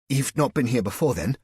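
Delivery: put-on nervous young man's voice jumping high; voice cracking high. A narrator's reading. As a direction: squeak it out an octave too high. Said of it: "his voice an octave higher than he thought".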